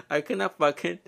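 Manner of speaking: laughing. Real, not acted. Laughing over a Mean Girls quote.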